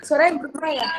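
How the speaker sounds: booming room echo. Real, not acted. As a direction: voice echoing in the room. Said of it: "Iya, gema banget".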